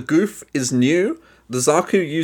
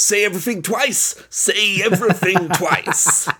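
wrestling promo; 4 semitones higher than usual. Acted. Host mocking repeated catchphrases, wrestling promo delivery. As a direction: bellow it like a mock wrestling promo, drawing words out. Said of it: "it's that wrestling promo disease".

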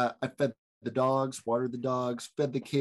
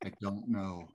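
mock host voice. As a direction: play the solemn show host. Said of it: "that was a really great host voice".

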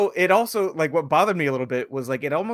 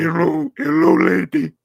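monotone computer voice; 4 semitones higher, 9 dB louder than usual. Retold or imitated. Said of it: "monotone computer low voice".

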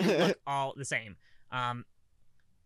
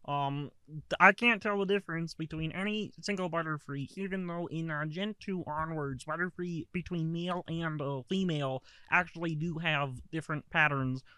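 Kermit the Frog voice. Acted. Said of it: "hear Kermit the Frog talking about".

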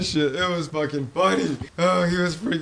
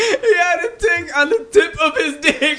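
high, squealing through laughter; helpless laughing punchline; cracking up; 9 semitones higher than usual. Real, not acted. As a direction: barely get it out for laughing. Cracking up at own story.

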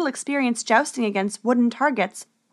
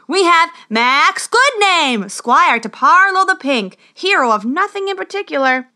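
herald's cry; 7 semitones higher, 6 dB louder than usual. A narrator's reading. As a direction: proclaim the names grandly to the crowd. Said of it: "cried the herald".

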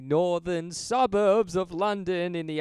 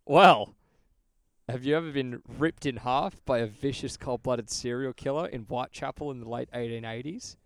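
infomercial voice; 3 semitones lower than usual. Pretend. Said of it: "cringy, like, tele infomercial voice".

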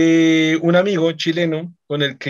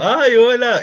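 high, bright "Ay, hola"; mock sing-song hello to a child; cheery greeting; 7 semitones higher, 5 dB louder, much slower than usual. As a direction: greet the kid with a lilt. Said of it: "yo llego así como".

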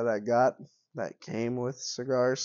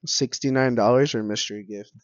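Korean NPC impression; 6 dB louder than usual. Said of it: "the Korean N P C".

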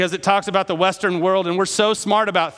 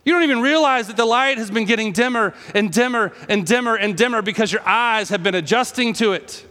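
Jesus pleading; 3 semitones higher than usual. Acted. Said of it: "And Jesus is like".

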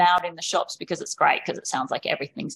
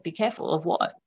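mock child protest; 2 semitones higher than usual.

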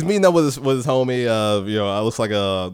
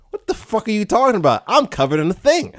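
freaked-out outburst; 8 semitones higher than usual. Retold or imitated. Freaked-out hero in suit.

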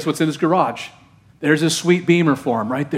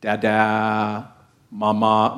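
put-on baby talk; 5 semitones lower, much slower than usual. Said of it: "They learn one and two syllable words".

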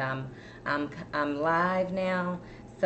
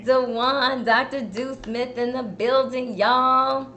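louder, higher announcer hype; excited hype; 6 semitones higher, 5 dB louder than usual. Real, not acted. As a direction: announce him like a star arriving. Host hypes guest's arrival.

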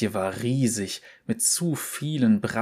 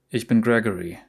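calm; faster than usual. Acted. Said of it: "so ruhig, wie er nur konnte".

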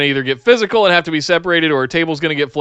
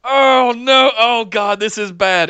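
high groaning "oh no" of a cringing viewer; mock dread; 5 semitones higher, slower than usual. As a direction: imitate a viewer watching it go wrong. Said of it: "with me going".

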